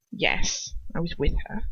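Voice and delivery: soft, lazy drawl. Acted. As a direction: drag the words out, bored. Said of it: "he drawls".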